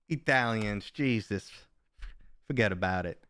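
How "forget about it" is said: put-on a light New York Yankee accent on "Forget about it". Streamer riffing on Italians in a mild Yankee accent. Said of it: "Love the Yankee accent".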